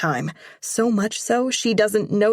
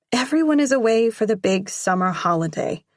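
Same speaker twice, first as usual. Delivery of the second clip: pouting; 5 semitones higher, faster than usual. Acted. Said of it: "I pout".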